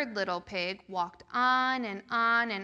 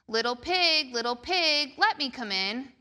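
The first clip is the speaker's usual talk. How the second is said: wolf voice; 3 semitones higher, 4 dB louder than usual. Acted. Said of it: "said the wolf".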